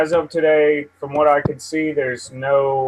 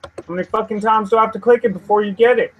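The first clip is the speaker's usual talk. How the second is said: exasperated rant; 7 semitones higher than usual. Real, not acted. Fighting a lagging computer.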